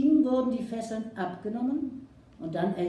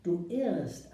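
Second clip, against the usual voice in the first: calm. Acted. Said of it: "antwortete Old Shatterhand ruhig".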